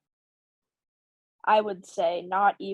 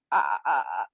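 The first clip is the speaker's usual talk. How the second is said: low broken uh-uh-uh of someone too upset to speak; mild imitation of choked crying; imitated sob stutter; 12 semitones lower than usual. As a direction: mimic sobbing so hard the words won't come. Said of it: "I couldn't even speak".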